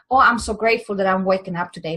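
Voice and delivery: quick, hollow gratitude line; without feeling. Shown as a demonstration. Showing viewers the wrong way, rushed and empty. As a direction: toss it off fast, meaning none of it. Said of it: "Not just saying".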